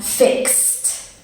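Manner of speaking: "fixed" ending in a voiceless kst. Shown as a demonstration. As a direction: close "fixed" on x plus a crisp t. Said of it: "is the X sound".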